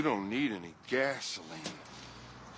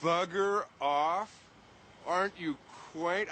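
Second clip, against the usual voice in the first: mock British accent; 5 semitones higher than usual. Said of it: "I love a woman with an accent".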